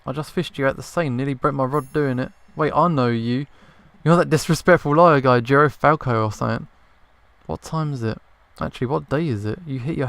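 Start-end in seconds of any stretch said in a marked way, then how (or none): 2.5-6.7 louder, indignant accusation; loud recognition. Acted. Fisherman recognising the disrespectful lawyer, louder. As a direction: call him out, much louder.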